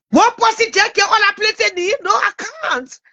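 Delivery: breathless from reading names; out of breath. Real, not acted. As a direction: talk while short of breath. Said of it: "I'm getting out of breath".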